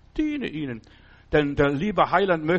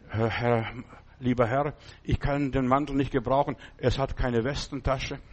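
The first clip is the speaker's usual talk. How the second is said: poor man's plea; 3 semitones lower than usual. Retold or imitated. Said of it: "gibt mir zurück und sagt".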